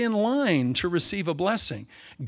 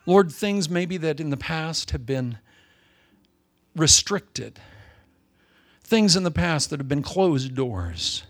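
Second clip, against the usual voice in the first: closing prayer; 2 semitones lower than usual. Acted. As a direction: pray over the congregation, unhurried and fervent.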